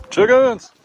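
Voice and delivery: high, loud call across the yard; calling chickens. Real, not acted. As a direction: call the flock in.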